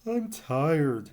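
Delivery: a hint of a sleepy growl; sleepy snake growling at Verdi; Dozer growling. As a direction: grumble it half asleep. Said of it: "Dozer growled".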